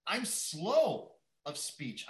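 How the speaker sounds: drawn-out, slowed speech; slow, halting Moses. Retold or imitated. Moses pleading with God, slowed and halting. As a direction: let the words drag as if each one costs effort. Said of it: "I almost get the impression that Moses stuttered".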